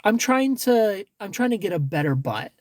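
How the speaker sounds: lightly hammed-up innocent request; mock sweet ask. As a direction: sweetly ask him for workout tips. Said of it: "be like".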